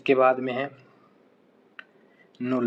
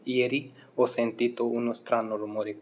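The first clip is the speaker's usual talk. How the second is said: slow model sentence; much slower than usual. Shown as a demonstration. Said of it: "एक अजीब सा शोर सुना".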